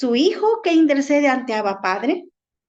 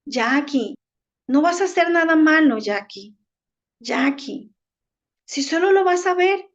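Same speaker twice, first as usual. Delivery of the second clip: lightly acted coaxing, pitch lifting on the urging; subtle tempting voice; 3 semitones higher than usual. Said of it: "la voz viene tan sutil y me dice".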